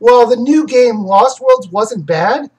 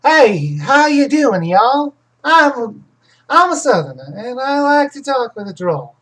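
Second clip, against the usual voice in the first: swooping, higher Southern drawl; put-on Southern drawl demo; Southern accent; 4 semitones higher than usual. Shown as a demonstration. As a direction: stretch it out with a hammed-up Southern twang. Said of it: "I wonder if I could do a Southern".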